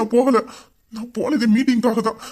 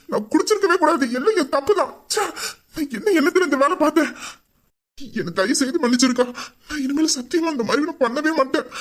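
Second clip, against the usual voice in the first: higher, tearful pleading; crying; 5 semitones higher than usual. Acted. Brother begging his sister's forgiveness, tearful. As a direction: beg forgiveness through tears. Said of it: "சரிடா, அழுவாத".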